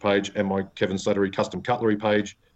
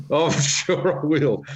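sarcastic drawl; 5 semitones higher, slower than usual. Real, not acted. Teasing reply to a threat.

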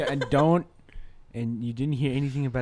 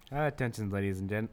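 airline pilot announcement; 3 semitones lower than usual. Pretend. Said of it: "can you just do the pilot's voice one more time".

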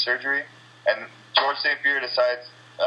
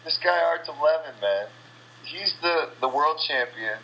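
higher-pitched, worked-up rant; fired up; 6 semitones higher than usual. Real, not acted. Fighter venting about the world champion, fired up. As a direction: vent with real heated energy. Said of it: "now I'm getting fired up".

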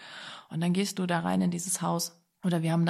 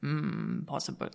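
lower, softer, a mock deep voice; deep-voiced builder; 3 semitones lower, 4 dB quieter, slower than usual. The builder answers the buyer, lower in a mock deep voice. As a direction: put on the builder's deep rumble. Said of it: "er hatte so eine ganz tiefe Stimme".

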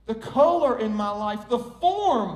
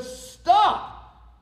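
high, pained cry of protest; hammed-up hurt yell; acted yell; 9 semitones higher, 4 dB louder, much slower than usual. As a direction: yell out in mock pain, higher and louder. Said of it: "I yelled at him and said".

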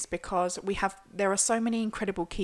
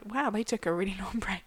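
whispered; 5 dB quieter than usual. Retold or imitated. Imagined listener remark.

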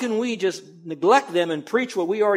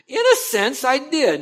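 amused aside; 8 semitones higher, 7 dB louder than usual. Real, not acted. Joking about his teen logic.

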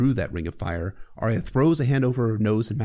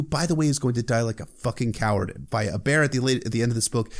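ordinary talk

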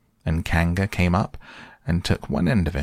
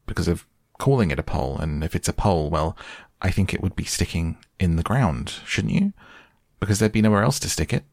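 fussy Rabbit voice; faster than usual. Acted. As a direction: rattle off the logic fussily. Rabbit reasoning.

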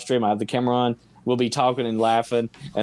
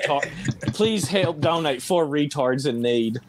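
beggar's plea; 3 semitones higher than usual. Pretend. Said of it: "Your cardboard sign was convincing".

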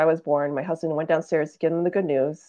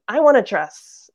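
put-on louder, higher, drawn-out child's demand; slow mock wail of a little kid; imitated meltdown; 5 semitones higher, 8 dB louder, slower than usual. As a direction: mimic a child's tantrum, without real tears. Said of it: "full on meltdown, crying".

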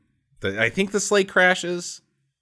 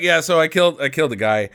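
lower, flat-toned retelling of the guy; mock deadpan confession; 8 semitones lower, faster than usual. Retelling the hero confessing a killing, mock deadpan. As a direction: play it casual, as if nothing happened.

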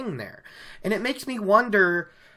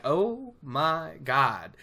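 awed oh my god; much slower than usual. Retold or imitated. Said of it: "but he's like".

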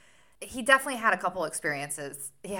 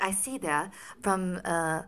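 put-on Sherlock Holmes accent. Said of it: "I sound like Sherlock Holmes".

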